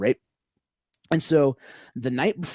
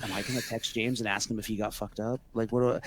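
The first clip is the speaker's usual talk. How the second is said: panicked thought; 4 semitones lower, 8 dB quieter than usual. Retold or imitated. Retells panicking inner thought.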